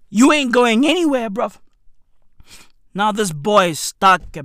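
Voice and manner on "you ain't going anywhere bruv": low, lightly voiced boss refusing; a hint of a dismissive manager, low; mock stern boss. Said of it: "And Mister Bloom was like".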